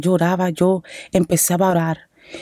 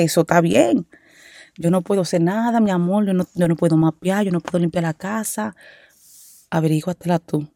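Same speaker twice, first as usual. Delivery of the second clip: pretend defiance; 4 dB quieter than usual. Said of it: "Mentira, yo no le dije eso".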